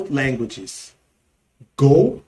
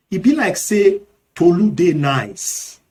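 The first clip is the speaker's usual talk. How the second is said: Nigerian Pidgin; 3 dB louder than usual. Shown as a demonstration. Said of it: "in Nigerian Pidgin English".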